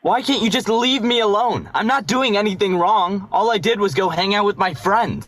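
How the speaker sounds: defensive outburst. Acted. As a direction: shove back at her nagging. Brother snaps back at sister.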